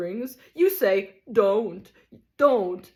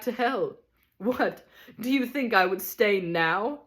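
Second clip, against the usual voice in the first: higher, loud theatrical tirade; a ham tragedian raging at his wife; stormed; 4 semitones higher, 4 dB louder than usual. Acted. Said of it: "he stormed".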